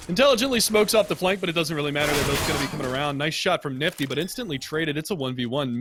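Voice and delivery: rapid live play-by-play, rising with the action; esports caster. Real, not acted. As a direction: call the clutch live like a caster.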